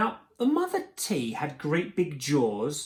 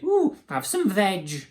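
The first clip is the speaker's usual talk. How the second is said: high, slow, louder welcome; a drawn-out hoot of hospitality; 4 semitones higher, 5 dB louder than usual. A narrator's reading. Duckbills offer Drip food, high hoot. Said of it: "And they hooted".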